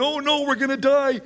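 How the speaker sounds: high, whiny mock panic wail; hammed-up panicked husband wailing. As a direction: play the freaked-out husband, hammed-up. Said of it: "while he's freaked out".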